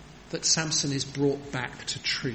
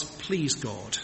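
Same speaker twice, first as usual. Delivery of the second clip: humble plea; 4 semitones lower, slower than usual. Retold or imitated. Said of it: "He cries".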